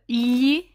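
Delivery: "li" allongé avec un l mouillé; "li" lentement, comme dans million; gli mouillé. Shown as a demonstration. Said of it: "il y a le son li". (« li », article italien gli, l palatal)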